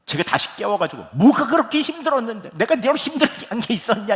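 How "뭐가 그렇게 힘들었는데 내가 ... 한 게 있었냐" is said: much higher and louder, indignant demand; boiling anger. Retold or imitated. Father wanting to confront his son at night, angry shout. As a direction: snap back at the son, seething. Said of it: "부글부글 끓어올라서".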